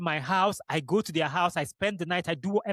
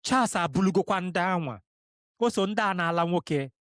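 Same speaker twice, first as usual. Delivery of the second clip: lightly voiced sister-in-law's gossip in Igbo; imitating sister-in-law in Igbo. Retelling what the sister-in-law told his sister, lightly imitating her in Igbo. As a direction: quote her words just as she said them, barely changing voice. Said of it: "This is the way she said it".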